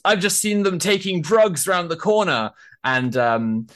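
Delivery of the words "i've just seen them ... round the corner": higher, lightly voiced crank; tattling like a busybody; conspiracy crank. Protester imitates a crank accusing them of drugs, lightly voiced. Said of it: "comes around the corner and goes".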